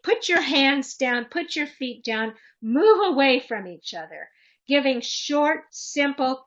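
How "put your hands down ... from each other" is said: put-on firm, mildly raised orders to fighting kids; brisk string of firm orders; adult yelling commands. Shown as a demonstration. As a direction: demonstrate short commands, only partly yelled. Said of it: "Usually an adult yelling".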